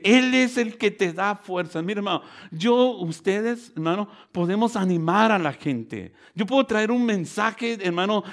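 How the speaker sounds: lively, insistent preacher's delivery; energetic preaching. Real, not acted. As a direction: urge the congregation on. Preaches to the congregation.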